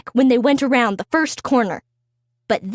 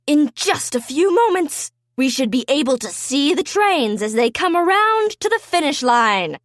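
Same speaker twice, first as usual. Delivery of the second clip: announcer. Acted. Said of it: "said the announcer".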